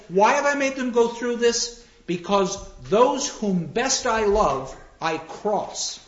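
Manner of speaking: lightly voiced solemn god, slow; grand Jupiter. Jupiter explaining to the ghosts why he tests them, slow and grand.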